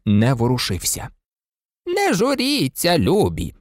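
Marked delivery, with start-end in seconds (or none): 1.9-3.5 put-on slow, high and soothing old witch; reassuring. A narrator's reading. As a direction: comfort the children gently. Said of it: "заспокоїла їх відьма". (лагідно, повільно)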